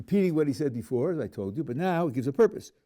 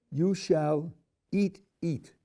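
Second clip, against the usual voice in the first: slow, higher "you shall eat", then a second "eat" added; doubled verb stressed; 3 semitones higher, much slower than usual. Shown as a demonstration. Teacher reading the literal Hebrew to the class, slow and stressed. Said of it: "The verb to eat is doubled".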